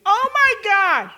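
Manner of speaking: high, loud, drawn-out shriek; screaming. Retold or imitated. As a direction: scream it out in horror, stretching the words. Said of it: "I just start screaming".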